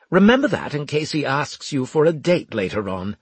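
lightly voiced snide officer. A narrator's reading. Officer to medic about his soldier, lightly voiced disdain. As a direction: lightly play a disdainful superior.

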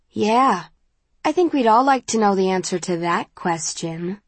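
lightly teasing sing-song. A narrator's reading. Friend chiming in on the question, sing-song voice. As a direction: let the tune rise and dip playfully. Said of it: "says Christina in a sing-song voice".

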